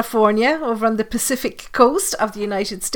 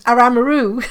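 lightly put-on Cork accent, words run together as 'Aramaroo'; 2 semitones higher than usual. Shown as a demonstration. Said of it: "they go in the Cork accent".

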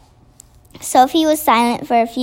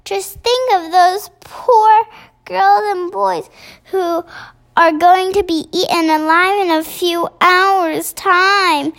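crying out; 6 semitones higher than usual. A narrator's reading. Sophie pleads with the BFG to act, crying out. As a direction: cry out in protest, pitched well up. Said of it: "stood up and cried out".

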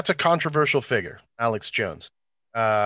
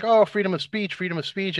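mocking whine; 6 semitones higher than usual. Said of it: "everybody's like".

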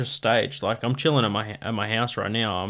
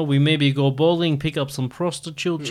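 put-on Russian accent; 3 semitones higher than usual. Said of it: "like, a Russian accent".

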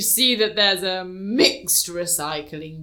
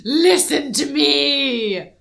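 stern goddess voice; 2 semitones higher than usual. Pretend. Playing an imposing goddess.

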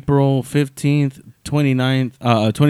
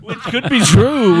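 laughing; 9 semitones higher, 3 dB louder, slower than usual. Real, not acted. Laughing while agreeing.

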